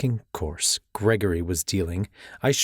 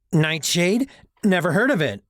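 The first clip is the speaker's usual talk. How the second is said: nervous voice, pitched higher; 9 semitones higher, 4 dB louder than usual. Acted. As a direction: squeak it out nervously. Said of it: "His voice came out a pitch higher than normal".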